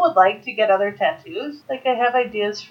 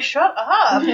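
mock annoyance; 5 semitones higher than usual. Acted retort to being teased.

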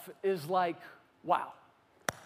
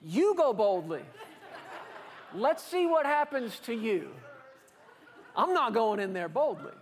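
chuckling, half-mocking doubt; laughing scoff. Hebrew listener scoffs at the call, laughing. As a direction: laugh it off as a dare.

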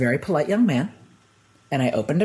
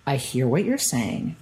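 measured reply; slower than usual. Retold or imitated. Calmly answering disbelieving people.

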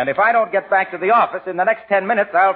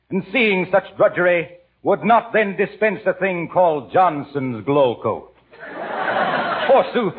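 hammy stage actor. Acted. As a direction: ham it up like a stage tragedian. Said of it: "If Shakespeare ain't in the public domain".

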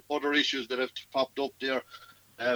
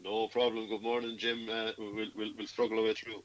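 croaky voice; 5 dB quieter than usual. Real, not acted. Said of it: "we'll put up with the croaky voice".

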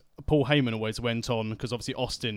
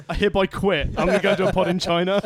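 mock quitting; 8 semitones higher, 8 dB louder, faster than usual. Real, not acted. Joking resignation.

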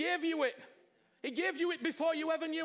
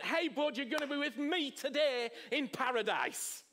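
friendly welcome. Retold or imitated. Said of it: "And Jesus went".

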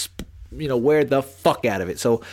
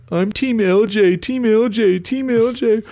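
gushing fan; 8 semitones higher than usual. Retold or imitated. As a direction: gush like a starstruck fan. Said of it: "The amount of D Ms that I get".

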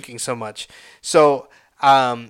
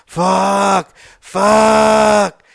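long, held curse, building louder; acted agonized swearing, pitched up; strained cursing; 5 semitones higher, 5 dB louder than usual. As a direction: stretch the word out through the pain. Cursing himself during the cramp.

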